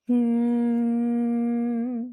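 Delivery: plain closed hum, high and steady; normal hum. Shown as a demonstration. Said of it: "just a normal hum".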